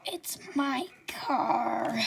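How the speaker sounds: slow, breathy whimper of pain; a hurt, tearful whisper. Acted. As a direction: barely get the words out, hurt.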